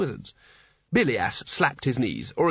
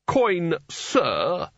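mild snap; 4 semitones higher than usual. Acted. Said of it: "snapped Spelter".

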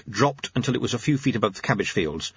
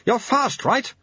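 gasped; 13 semitones higher, slower than usual. A narrator's reading. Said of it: "gasped the sweeper".

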